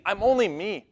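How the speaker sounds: high, urgent retold plea; pleading. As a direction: act out begging to be let through. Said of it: "She's pleading".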